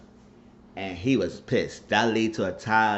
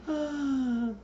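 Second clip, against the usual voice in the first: mock laughing. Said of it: "she was laughing".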